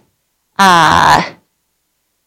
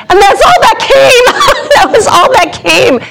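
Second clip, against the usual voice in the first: laughing; 11 semitones higher than usual. Real, not acted. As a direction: laugh through the words at yourself. Laughs at her own answer.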